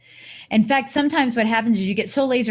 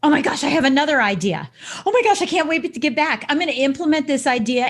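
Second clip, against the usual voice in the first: excited new idea; 5 semitones higher, faster than usual. Retold or imitated. Sudden new idea on holiday.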